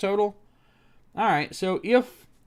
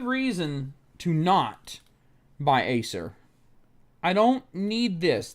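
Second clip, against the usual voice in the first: frustrated ranting; angry rant; 4 semitones higher than usual. Real, not acted. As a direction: hammer each word at the website. Ranting at Acer site.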